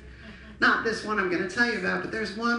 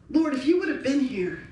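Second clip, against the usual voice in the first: raised, pleading cry to the Lord; louder, protesting outburst; Martha's reproach; 3 semitones higher, 5 dB louder than usual. Acted. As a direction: call out in acted reproach. Acts out grieving Martha's reproach.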